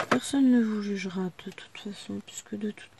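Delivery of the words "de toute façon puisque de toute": whispered aside. Real, not acted. Muttered aside.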